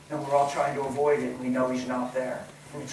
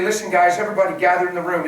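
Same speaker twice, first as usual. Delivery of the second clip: calling the family; 6 dB louder, faster than usual. Pretend.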